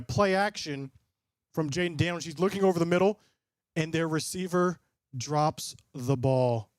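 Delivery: lightly voiced game commentary; play-by-play call. Streamer calling the game live for chat, a light play-by-play. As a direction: call the snap like a broadcaster.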